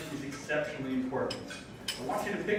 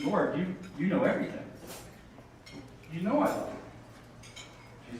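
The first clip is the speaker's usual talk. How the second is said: grieved plea, sinking to a hush; 2 semitones higher than usual. Retold or imitated. Peter's third, grieved reply.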